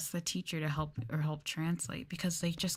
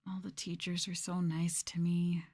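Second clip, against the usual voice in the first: whisper. Real, not acted. Fond aside about old colleagues.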